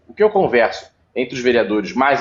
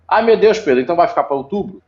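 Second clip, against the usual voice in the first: higher, quickening mock-alarmed question; mock dismay; 5 semitones higher, faster than usual. Councillor imitating someone alarmed by the long delay, mock dismay. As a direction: voice a worried listener's exclamation, lightly hammed-up. Voices an imagined worried questioner.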